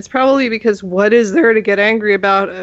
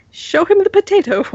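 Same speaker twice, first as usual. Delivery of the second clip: mock high-pitched refrain; 9 semitones higher, 3 dB louder than usual. Player mimics the refrain.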